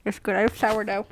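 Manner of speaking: eating while talking; talking through a bite of bread; mouth full. Real, not acted. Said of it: "I'm eating some bread right now".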